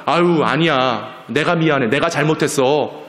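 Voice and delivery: lightly voiced, conciliatory dad; apologetic father. Father reassuring his wife over spilt water, mildly apologetic. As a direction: hurry to take the blame kindly. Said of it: "그걸 들은 아빠는".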